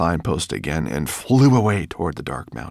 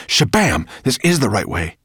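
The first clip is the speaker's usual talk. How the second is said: loud, raised-pitch announcement; excited cry; 5 semitones higher, 6 dB louder than usual. A narrator's reading. Ben confirms the route to his friends, excited cry. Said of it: "he cried".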